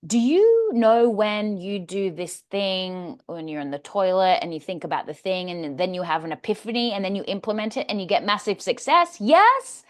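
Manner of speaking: hammed-up speaker's opener, gathering speed; engaging opening question. Shown as a demonstration. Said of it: "always start off, uh, a speech with a question".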